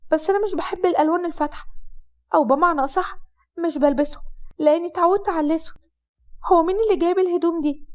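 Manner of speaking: light girlish voicing, puzzled; Hasnaa's voice.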